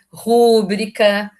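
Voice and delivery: drawn-out "rúbrica" stressed RU, like a proparoxytone; mispronounced stress. Retold or imitated. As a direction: imitate the wrong "rúbrica", leaning on the first syllable. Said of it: "cansado de ouvir as pessoas falarem".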